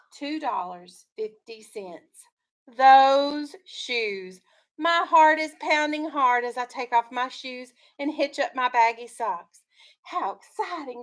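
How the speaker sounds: steady read-aloud storytelling voice; story narration. A narrator's reading. Teacher reading a picture book to her class, storytelling voice.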